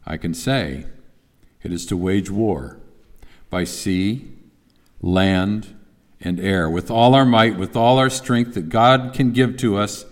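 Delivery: a lightly voiced wartime leader rallying a nation; measured, grave oratory with weighted pauses; wartime speech. Preacher quoting a leader readying people for war, mild oratory. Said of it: "that sounds like somebody that we would expect to deliver a speech if they were preparing the people for war".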